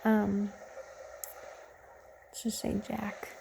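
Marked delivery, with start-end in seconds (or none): 2.3-3.3 whispered aside; conspiratorial whisper. Real, not acted. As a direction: drop to a whisper for the fake name. Making up a fake name.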